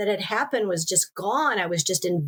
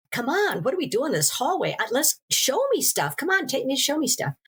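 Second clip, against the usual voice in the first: excited; 7 semitones higher than usual. Retold or imitated. Excitedly urging dead friend.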